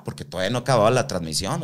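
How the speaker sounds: normal talking voice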